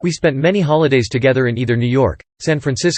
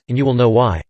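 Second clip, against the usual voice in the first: trembling voice. A narrator's reading. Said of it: "my mother says in a trembling voice".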